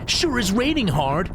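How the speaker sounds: put-on high, youthful boy voice; young boy voice. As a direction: pitch up like a young kid. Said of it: "so he has to sound like that".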